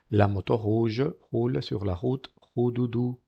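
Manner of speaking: slow demo, each R in "rouge roule route Roudoudou" aspirated; gentle throat R on "Roudoudou"; soft French R. Shown as a demonstration. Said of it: "Tiene que ser muy suave".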